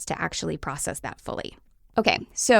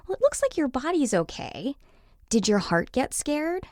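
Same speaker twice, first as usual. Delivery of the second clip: put-on higher, coaxing voice to a child; gentle parent; 7 semitones higher than usual. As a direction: check in tenderly with a hurt little one. Voicing parent soothing fallen child.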